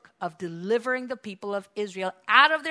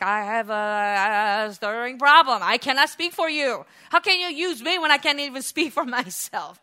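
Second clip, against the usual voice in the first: whiny Moses; 3 semitones higher, 7 dB louder than usual. Acted. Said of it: "It's like".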